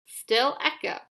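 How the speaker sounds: ordinary delivery, nothing marked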